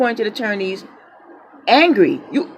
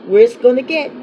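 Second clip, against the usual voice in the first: louder, punchy vow; defiant declaration; 5 dB louder, faster than usual. Real, not acted. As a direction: announce it boldly. Defiant outburst.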